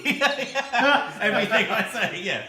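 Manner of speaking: laughing through the words; giggling while talking. Real, not acted. Laughing at being muted.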